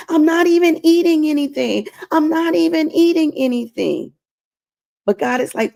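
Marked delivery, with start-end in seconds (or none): 0.1-4.1 mock whiny complaint. God mimicking her complaint.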